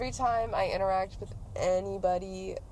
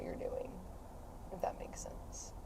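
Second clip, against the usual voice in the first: whispered aside; 14 dB quieter than usual. Real, not acted. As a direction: drop to a whisper. Trails into a whisper.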